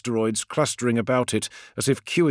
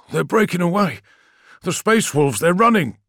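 high, excited outcry; excited alarm; 6 semitones higher, 4 dB louder than usual. A narrator's reading. Friedrich watching the Space Wolves flee, excited. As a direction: exclaim it as you watch it happen. Crewman exclaims at fleeing fleet.

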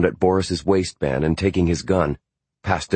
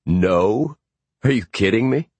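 high, laughing disbelief; incredulous chuckle; amused disbelief; 5 semitones higher than usual. A narrator's reading. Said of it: "Martin laughed".

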